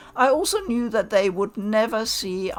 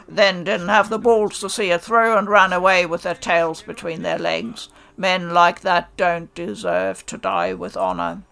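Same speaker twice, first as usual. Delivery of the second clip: harsh contempt; 2 semitones lower, 4 dB louder than usual. Acted. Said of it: "His voice cracked like lightning".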